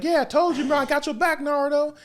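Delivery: high, buddy-buddy voice; mock reassuring friend. Mizuki fake reassuring Naruto.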